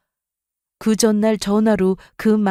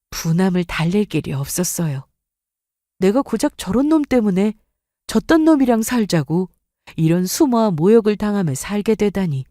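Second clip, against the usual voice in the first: ordinary delivery, nothing marked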